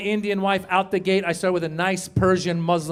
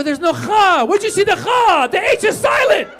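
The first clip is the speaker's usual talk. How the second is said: high shouting correction; an outraged high-pitched correction; exasperated correction; 12 semitones higher, 8 dB louder than usual. Retold or imitated. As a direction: yell that the H is silent, fed up. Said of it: "I go".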